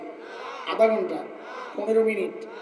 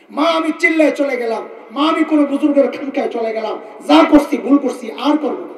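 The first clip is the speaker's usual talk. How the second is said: pleading son; 4 semitones higher, 6 dB louder than usual. Acted. Repentant son pleading to mother.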